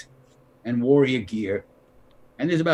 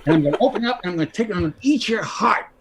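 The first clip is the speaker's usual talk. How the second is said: laughing; 6 semitones higher, much faster than usual. Real, not acted. Laughing while retelling.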